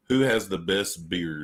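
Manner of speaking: slow, lightly put-on radio host voice; deep radio voice. Co-host asks the panel a question, deep radio voice. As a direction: pose it like a radio interviewer, unhurried. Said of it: "let me get my voice back".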